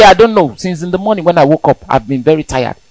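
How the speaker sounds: mildly weary explanation; a hint of a drained grumble; tired excuse. Worn-out believer answering friends about his tiredness. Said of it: "when they ask you, say".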